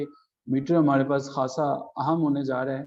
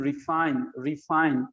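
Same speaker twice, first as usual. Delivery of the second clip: रिफाइन with a light रि and stressed फाइन; stress on second syllable. Shown as a demonstration. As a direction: put the weight on फाइन in रिफाइन. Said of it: "फाइन के ऊपर हमारा stress ज्यादा है".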